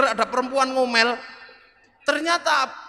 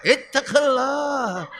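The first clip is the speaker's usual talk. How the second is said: slow, weighty command; mock stern khutbah cry; stern sermon warning; much slower than usual. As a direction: deliver it like a sword stroke. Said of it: "Kalau khutbah itu pedangnya".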